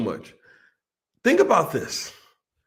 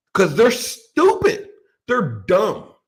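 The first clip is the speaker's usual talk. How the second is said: mock indignant; 4 dB louder, much slower than usual. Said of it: "who pissed this guy off".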